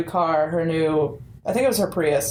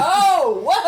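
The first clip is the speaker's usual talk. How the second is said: high, laughing shock; startled laugh at the stranger's yell; startled gasp; 9 semitones higher, 5 dB louder than usual. Retold or imitated. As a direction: blurt it out caught off guard. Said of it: "I was like".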